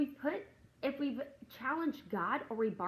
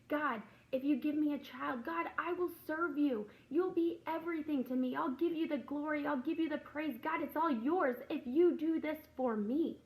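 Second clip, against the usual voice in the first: pleading prayer; 4 semitones higher than usual. Retold or imitated. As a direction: beg God with rising urgency. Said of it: "And we say".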